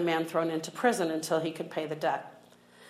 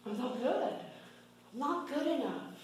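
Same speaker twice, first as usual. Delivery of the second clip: self-critical voice; 6 semitones higher, 8 dB quieter than usual. Retold or imitated. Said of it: "if I'm walking around saying".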